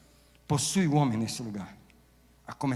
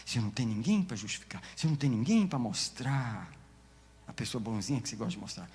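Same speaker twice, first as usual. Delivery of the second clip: ordinary delivery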